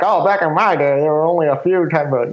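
lightly voiced old-timer; playful, understated grandpa voice; mock grandpa. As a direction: put on a hint of a reminiscing grandpa. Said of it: "I sound like a grandpa".

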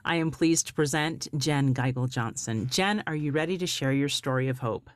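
polished podcast host intro; warm, inviting show-opening read; beautiful voice. Acted. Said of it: "I could listen to your voice all day long".

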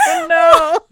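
high, loud disbelief; real shocked dismay. Real, not acted. Listener hearing the dad asked for money, shocked dismay. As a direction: exclaim it high, appalled and amused. Reacting to the celebrity anecdote.

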